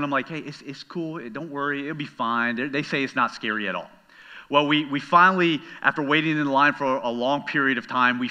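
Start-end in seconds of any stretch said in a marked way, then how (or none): 0.3-3.9 calming reassurance. Retold or imitated. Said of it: "I'm trying to calm her down".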